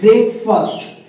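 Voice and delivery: ब्रेकफास्ट as BREK-fust; reduced "fust" ending on ब्रेकफास्ट; corrected pronunciation. Shown as a demonstration. Teacher repeating the answer for students, corrected pronunciation. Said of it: "क्या बोलते हैं".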